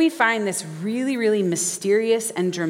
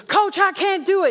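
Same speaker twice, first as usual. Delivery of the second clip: much higher, louder, a strained cry of giving up; exhausted player pleading; 12 semitones higher, 4 dB louder than usual. Acted. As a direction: beg the coach, worn out. Exhausted player begs coach.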